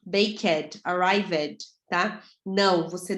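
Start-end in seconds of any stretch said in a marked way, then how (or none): 0.0-1.6 "Baked" dito "bêikéd", com o E aberto; "arrived" said as "arraivéd", ed sounded out; wrong -ed pronounced. Shown as a demonstration. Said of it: "em vez de E, faz ed". (pronúncia errada, "ed" pronunciado como sílaba)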